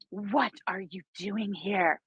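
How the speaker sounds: slow, dramatic mock of her question. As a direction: overplay her shocked question. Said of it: "She was so dramatic".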